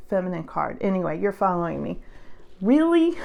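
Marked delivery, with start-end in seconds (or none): 2.6-3.3 incredulous. Real, not acted. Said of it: "indignant disbelief".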